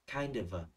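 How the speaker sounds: "Kind of a" run together as kain-də-və; linked sounds. Shown as a demonstration. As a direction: carry the d and v over in "Kind of a". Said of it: "Nối âm vờ sang". (đọc nối âm "Kind of a" thành kain-đờ-vờ)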